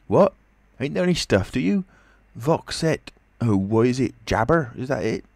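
high, groping cockney questions; puzzled tramp. A narrator's reading. Tramp quizzes the invisible man, high and baffled. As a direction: fumble for the half-remembered phrase.

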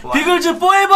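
high, loud crew chant; rallying shout. Real, not acted. Host signs off the broadcast with the crew, rallying shout. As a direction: belt out a team cry. Crew's closing rallying cry.

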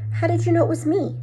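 McGonagall. Acted. Startled cat-lady demanding.

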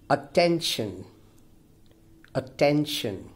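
"attention" stressed clearly on TEN; second-syllable stress. Shown as a demonstration. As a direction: model "attention", weight on the middle syllable. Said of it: "clearly the stress falls on the second".

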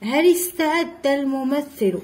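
هل استعد run together as hali-sta'adda; linking hamza. Shown as a demonstration. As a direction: glide from هل into the st of استعد. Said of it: "إذا ما نطقناش".

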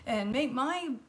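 a hint of an indignant salon owner; ranting nail tech. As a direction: rant like the fussy nail tech. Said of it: "he's ranting on and on".

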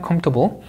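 'comfortable' with the weight on COM; first-syllable stress. Shown as a demonstration. Teacher repeating the drill, first syllable strong. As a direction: stress COM, compress the rest. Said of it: "이름절 강세입니다".

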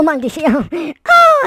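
ordinary talk

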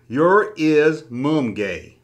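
reads it again, word by word; slow careful reread. Shown as a demonstration. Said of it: "let me try that again".

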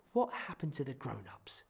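soft, gentle question; quiet. Acted. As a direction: ask it softly. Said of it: "she asked quietly".

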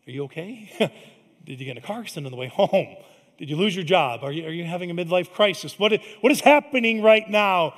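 quick, rising alarm, ending loud; mock panic as spouse. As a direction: spouse fearing something went wrong at work.

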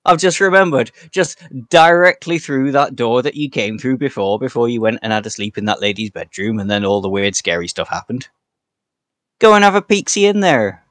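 game master voicing Trigger to the players, a failed Cockney that drifts West Country. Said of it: "'cause I can't do a Cockney accent".

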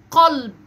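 heavy back q in "قلب"; emphatic initial qaf. Shown as a demonstration. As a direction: model "قلب" clearly for a learner. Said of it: "هننطق كلمات تبدأ بصوت حرف القاف".

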